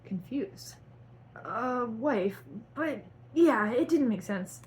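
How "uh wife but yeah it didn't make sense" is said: high, loud irritated retort; hammed-up angry correction. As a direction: snap it back angrily, rising loud. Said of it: "His tone was angry".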